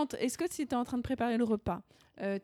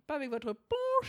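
put-on higher, lightly done bourgeois accent; Valérie Lemercier; 4 semitones higher than usual. Fan citing the line typical of her role, bourgeois accent. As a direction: say it with a hint of bourgeois affectation. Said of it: "cet accent bourgeois".

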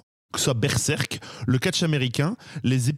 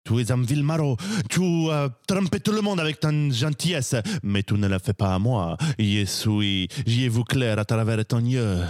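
hammed-up Spanish accent. Cat swordsman accusing Donkey, in a hammed-up Spanish accent. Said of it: "J'assume pas du tout cet accent".

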